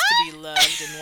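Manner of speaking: very high sing-song gush; mock swoon. Host gushing to cohost about fans, high swoony voice.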